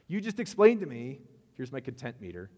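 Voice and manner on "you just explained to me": loud, high indignant protest; indignant outburst. Retold or imitated. Pastor reenacting arguing with the phone rep, indignant and loud. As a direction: cut her off with outrage.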